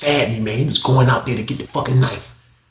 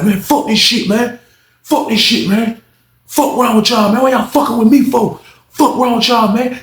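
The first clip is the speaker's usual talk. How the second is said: mock angry cursing; 9 semitones higher, 3 dB louder than usual. Inmate cursing at guards.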